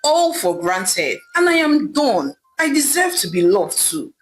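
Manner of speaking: a hint of wounded anger; angry. Husband ending the marriage, mildly angry. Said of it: "Ame said to his wife angrily".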